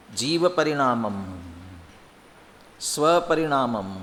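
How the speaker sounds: slow, measured Sanskrit reading; scripture recitation. Acted. Teacher reading the scripture passage to students, measured recitation. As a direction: recite slowly, pausing between phrases. Reads Sanskrit introduction aloud.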